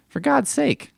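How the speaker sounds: high exasperated groan; fed up, pitch it way up. Real, not acted. Ranting about the film location.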